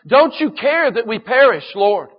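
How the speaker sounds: desperate cry. Acted. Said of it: "the disciples cried out".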